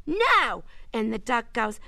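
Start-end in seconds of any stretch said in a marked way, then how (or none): 0.1-0.6 mild retold yell, no real shout; mock yell. Girl tells duck joke on air, clerk's mild mock yell. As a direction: punch it as the exasperated clerk. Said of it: "And the guy yells".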